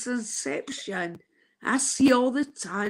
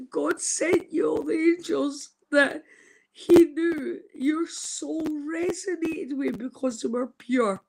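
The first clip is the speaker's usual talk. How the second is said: tearful quote, voice cracking; crying; 4 semitones higher than usual. Real, not acted. Retelling a friend's words about angels, crying. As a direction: let the tears break through the words. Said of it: "I'm crying my heart out".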